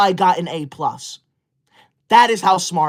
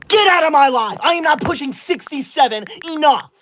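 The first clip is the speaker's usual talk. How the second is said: indignant outburst; 6 semitones higher than usual. Acted. Offended outburst at a comment.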